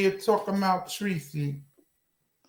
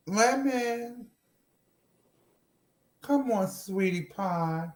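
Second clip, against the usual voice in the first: softer, tender cajoling; coaxing; 6 dB quieter than usual. Real, not acted. Host pleading with silent Lemon, softly coaxing. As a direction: sweet-talk them into answering.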